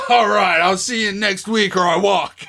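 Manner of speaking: loud laughing ultimatum; laughing shout. Retold or imitated. Kurt Russell ultimatum.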